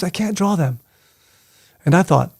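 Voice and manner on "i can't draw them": sensei's wistful lament, higher; wistful voice of the master who can't draw them. Retold or imitated. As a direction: sigh it out like the old teacher who gave up. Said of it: "he would get very wistful or sort of dreamy-like".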